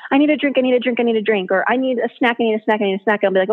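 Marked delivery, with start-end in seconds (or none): 0.1-1.5 higher, mock-frantic kid nagging. Mom imitating her kids pestering her at the sink, higher and mock frantic. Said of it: "the kids come to me and they're frantic". 1.7-3.2 higher, mock-frantic kid nagging. Mom imitating her kids pestering her at the sink, higher and mock frantic. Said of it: "the kids come to me and they're frantic".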